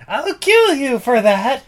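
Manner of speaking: high, loud, slow furious yell. Retold or imitated. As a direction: roar a threat in rage. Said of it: "he's like".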